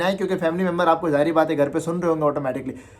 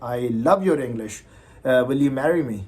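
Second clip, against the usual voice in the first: admiring listener; 5 semitones lower, much slower than usual. Acted. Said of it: "ताकि जो आपको सुने वो बोले".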